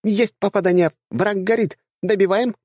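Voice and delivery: put-on high, squeaky girlish chatter; squeaky dryad. Dryad cheers hit.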